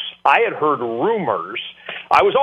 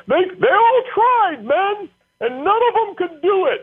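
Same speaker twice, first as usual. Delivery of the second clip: Mac's booming voice. Retold or imitated. Coach announcing over the practice field in a booming put-on voice. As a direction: boom it out like the old coach on the field. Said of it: "just picture Mac in his voice".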